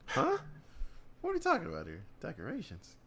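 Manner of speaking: retelling a baffled reaction to window bars; retold confusion. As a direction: squeak out the confusion.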